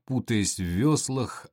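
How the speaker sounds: ordinary delivery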